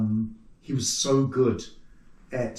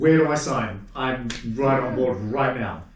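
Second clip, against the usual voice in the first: emphatic, louder retold eagerness; eager acceptance; 4 dB louder than usual. Puppet maker recalls being offered a film job, eagerly accepting. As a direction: jump at the offer, drawing out the last words.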